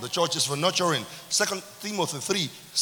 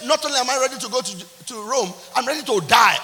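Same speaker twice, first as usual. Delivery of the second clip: Paul resolute; 4 semitones higher, 6 dB louder than usual. Retold or imitated. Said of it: "He said".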